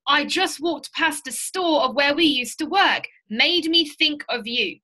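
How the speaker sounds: slowed down, each word set out clearly; measured, teacherly read of the sample message; slow, deliberate demo. Shown as a demonstration. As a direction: spell the reason out slowly for the class. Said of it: "My reason was".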